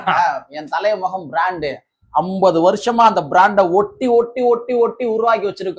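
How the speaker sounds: swaggering movie one liner. Retold or imitated. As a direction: build the hero line up, rising. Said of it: "Sarkar படத்துல ஒரு scene வந்து வரும்".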